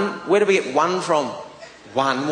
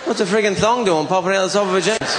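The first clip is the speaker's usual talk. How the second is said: higher, incredulous questioning; baffled disbelief; 5 semitones higher than usual. Retold or imitated. Comedian questioning the bloke about a misplaced thong, baffled disbelief. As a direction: demand an explanation, mock-baffled.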